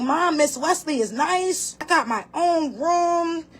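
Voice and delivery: mock child excitement building to a shout on Mom; imitating excited son. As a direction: play the little boy, thrilled about his new room. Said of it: "He was so excited today".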